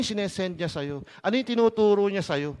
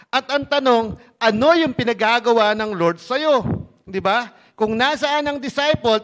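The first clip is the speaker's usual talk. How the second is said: raised, louder preacher's voice on key phrases; emphatic preaching; 3 semitones higher, 7 dB louder than usual. Real, not acted. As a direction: drive the point home to a congregation.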